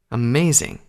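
mild disbelief; incredulous. Acted. Two Colt reacts to Applejack's loyalty, mildly incredulous. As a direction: say it as if scarcely believing. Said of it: "he said incredulously".

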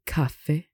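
"caffè" stressed on the last E; final stress. Shown as a demonstration. Teacher shows written accents, stress on the E. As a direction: lean on the final syllable of "caffè". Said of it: "which has the accent on the E".

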